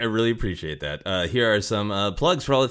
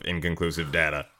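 lower, robotic monotone; robotic computer voice; 3 semitones lower than usual. Retold or imitated. Host echoing guest's Bat computer, robotic. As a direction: copy the talking computer. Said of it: "would say things in a very robotic".

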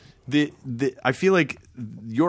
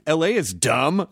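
slow San Francisco drawl, rising at the end; San Francisco accent, lazy questioning lilt; 3 semitones higher, slower than usual. Shown as a demonstration. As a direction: imitate a dismissive San Franciscan, drawn out. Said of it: "it sounds more like this".

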